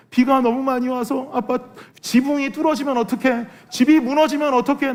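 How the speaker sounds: a little daughter afraid the house will fall; scared crying child. Retold or imitated. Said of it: "그랬더니".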